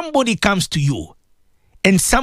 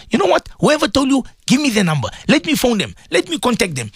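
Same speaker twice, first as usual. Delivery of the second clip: indignant demand; 6 semitones higher than usual. Retold or imitated. Listener demands the accuser's number.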